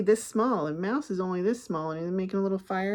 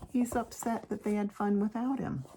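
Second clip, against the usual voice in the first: hushed aside; whispering. Real, not acted. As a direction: whisper it gently.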